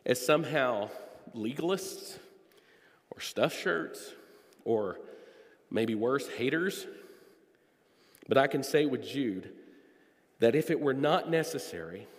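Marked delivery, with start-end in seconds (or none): 1.3-6.9 breathy, slow mock label; a mocking slow whisper of a name others use. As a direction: whisper the insult with a sneer. Mocking what critics call them.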